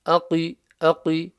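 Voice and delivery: أَقِ with the qaf from the back of the mouth; full-mouth qaf. Shown as a demonstration. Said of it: "the back of the mouth".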